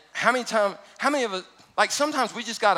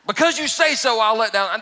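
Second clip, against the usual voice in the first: bold declaration; 4 semitones higher, 5 dB louder than usual. Shown as a demonstration. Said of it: "but because you say so".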